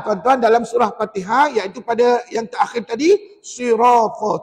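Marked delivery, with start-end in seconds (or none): 3.4-4.4 SIRATA with a heavy, rounded r and long vowel; slow SIRATA, thick ra drawn out. Shown as a demonstration. Teacher points out the seventh ra, SIRATA with heavy r. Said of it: "Ada tujuh ra tebal".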